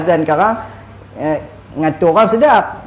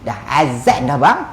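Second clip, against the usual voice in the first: wife calling husband. Retold or imitated. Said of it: "bila isteri kata".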